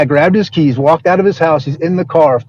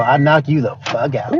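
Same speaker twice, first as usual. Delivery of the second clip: slow, lightly put-on boxer taunt; a hint of a slow, cocky fighter's threat; mild mock boxer trash talk, drawn out; Rolly Romero; 3 semitones lower, 5 dB quieter than usual. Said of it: "He got that Rolly Romero accent".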